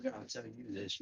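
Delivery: muffled, as if mic is covered; speaking through a covered microphone. Real, not acted. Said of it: "your audio's a little muffled".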